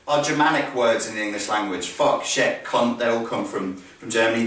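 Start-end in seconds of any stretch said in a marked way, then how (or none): none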